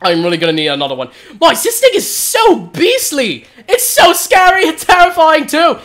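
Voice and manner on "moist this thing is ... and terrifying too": scared. Real, not acted. Boss fight, cries out in fear.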